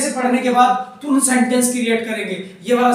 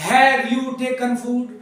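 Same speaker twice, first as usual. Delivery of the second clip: slow teaching read; much slower than usual. Shown as a demonstration. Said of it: "खुद बनाओ तुम अपने हाथ से".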